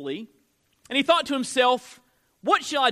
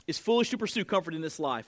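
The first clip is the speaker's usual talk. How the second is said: It's foolish to pursue comfort in this life, repeated fast and softer; quick quieter repeat; 4 semitones lower, 5 dB quieter, faster than usual. Shown as a demonstration. Pastor repeating the line so listeners can write it down, fast and softer. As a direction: run it again quickly for note takers. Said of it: "This is in your notes".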